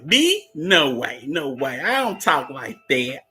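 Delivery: high squeaky "me?" then laughing protest; mock denial. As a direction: play shocked innocence, tongue in cheek. Jokingly denies own accent.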